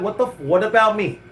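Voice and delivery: indignant what about me; indignant demand. Retold or imitated. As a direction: demand to know why not you. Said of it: "You should be like".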